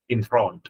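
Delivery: "Enthralled" ending on a d; final d sound. Shown as a demonstration. Teacher shows students the d ending of "Enthralled". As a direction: finish "Enthralled" with a d after the o. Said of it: "chữ A D phát âm âm đờ".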